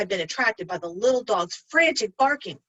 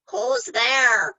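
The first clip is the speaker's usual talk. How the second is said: higher, louder frail granny; old granny voice; 4 semitones higher, 5 dB louder than usual. Acted. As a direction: call out as a frail grandmother. Grandmother voiced.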